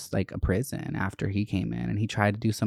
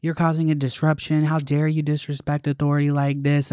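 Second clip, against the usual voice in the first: raised, mocking principal voice; the principal scolding me, mocked in a higher voice; 5 semitones higher than usual. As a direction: mimic a pompous scolding principal, pitched up. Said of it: "was like".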